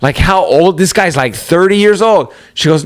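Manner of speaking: normal talking voice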